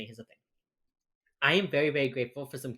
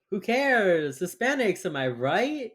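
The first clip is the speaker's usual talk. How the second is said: sarcastic mock indifference; 4 semitones higher, slower than usual. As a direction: toss it off as mock agreement. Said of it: "That's sarcasm".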